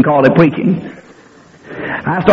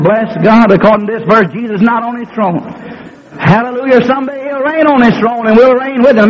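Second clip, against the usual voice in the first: higher and more driven preaching; louder and faster; 4 semitones higher than usual. Retold or imitated. Preacher repeating the verse to his congregation, louder and faster. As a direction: push it harder to get an amen. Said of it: "So I got a little louder and a little faster".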